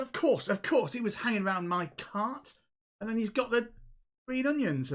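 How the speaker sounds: high-pitched insistent protest; indignant accuser. Acted. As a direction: argue your case as a wronged stallholder. Gnome accuses the kobold child.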